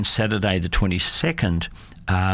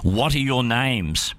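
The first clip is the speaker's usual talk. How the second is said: slow, higher-pitched mock burglar's demand; mild demand; 4 semitones higher than usual. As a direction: lightly play a burglar demanding an answer. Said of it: "he demanded".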